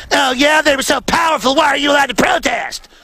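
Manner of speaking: mocking critics. Host mimics reporters challenging the protest, in mock shouting.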